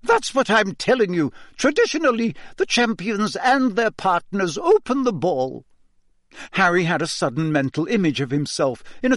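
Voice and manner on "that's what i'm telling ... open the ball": high, clipped Scottish schoolmistress; a strict old teacher addressing the class; stern McGonagall. Acted. Teacher announcing the ball to the class, stern and high.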